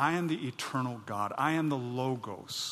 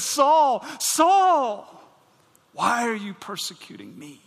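loud, high call of the name; 7 semitones higher, 7 dB louder, slower than usual. Acted. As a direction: cry out across the road. The Lord calling Saul.

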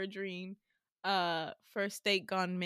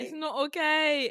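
higher, louder mock-British protest; British accent; 4 semitones higher, 5 dB louder than usual. Both hamming British accents.

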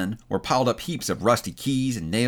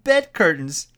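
higher, louder exclamation; exclaiming; 7 semitones higher, 5 dB louder, slower than usual. Acted. Bed curtains are pulled from the bundle, exclaiming. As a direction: burst out with it, raised in pitch.

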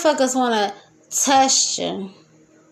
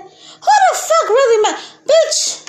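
pitched-up shout through laughter, louder; high laughing shout; 11 semitones higher, 3 dB louder than usual. Real, not acted. Mocking her own advice, a high laughing shout. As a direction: yell it high while cracking up.

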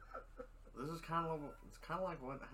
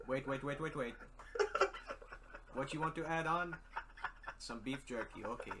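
put-on Middle Eastern accent; 4 semitones lower, 5 dB louder than usual. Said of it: "impersonation of the guys at Quick Stop".

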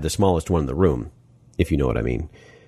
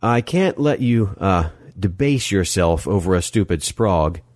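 halting protest. Acted. Narrator protests haltingly to Molly.

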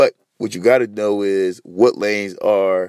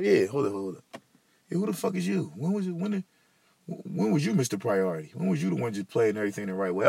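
imagined heckler; 3 semitones higher, 9 dB quieter than usual. Acted. Heckling himself in another voice.

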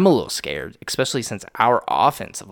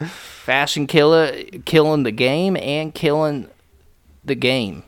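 raised, put-on country twang; country accent; 3 semitones higher, 3 dB louder than usual. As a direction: play it up in a mock country accent. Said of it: "doing the fucking country accent".

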